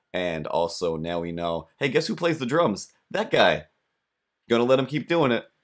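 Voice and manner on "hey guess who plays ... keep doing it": mock sarcastic. Mocking drummer neighbor.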